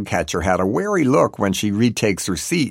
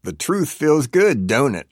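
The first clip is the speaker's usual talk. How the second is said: tempting; 5 semitones higher than usual. A narrator's reading. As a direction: draw it out temptingly, pitched up. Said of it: "Lester pants temptingly".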